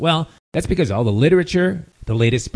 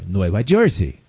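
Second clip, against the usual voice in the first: put-on Nueva Jersey with a light Latin accent; Latin American pronunciation; 5 semitones lower than usual. Showing how Latins name the state, Latin accent. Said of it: "they always say Nueva York".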